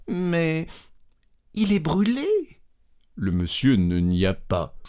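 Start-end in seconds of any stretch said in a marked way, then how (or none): 0.1-2.3 much higher, plaintive protest; insist, almost wounded; a high, plaintive wife's protest; pleading wife. Acted. Wife pleading her case.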